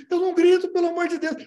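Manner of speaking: high, loud exasperated shout; yelling denial. Acted. Accused of yelling, shouting back at the family. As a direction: yell that you don't yell, in disbelief.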